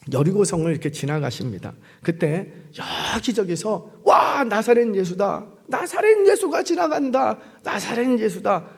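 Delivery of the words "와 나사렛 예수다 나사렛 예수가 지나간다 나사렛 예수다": drawn-out acted cry, peaking high in the middle; mock excited shouts without full volume; crowd calling out. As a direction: imitate townsfolk spreading news. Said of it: "하고 외쳤어요".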